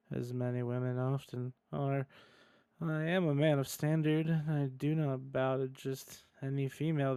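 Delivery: awkward, deadpan neckbeard reading. Acted. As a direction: read it stiffly, with halting pauses and little change in pitch. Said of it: "in the most deadpan voice".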